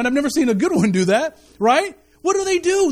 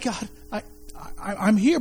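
humbled whisper; 3 semitones lower, 5 dB quieter than usual. Retold or imitated. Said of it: "he's like".

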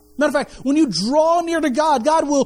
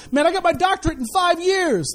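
mock bragging; 6 semitones higher than usual. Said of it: "somebody go".

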